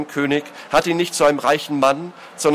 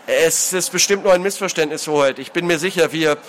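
higher-pitched hasty excuse; nervous placating; 3 semitones higher than usual. Acted. Culprit placating his lord until cut off, nervously. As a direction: try to smooth it over.

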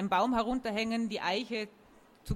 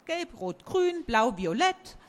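delighted talking tree; 4 semitones higher, 4 dB louder, slower than usual. Acted. Oak voice in a story.

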